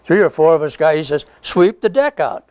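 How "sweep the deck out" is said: higher, slower retold command; imitating a sailor's order. Sailor telling soldiers to sweep the deck, a higher, slow mock order. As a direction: play the sailor giving an order, pitched up and slow.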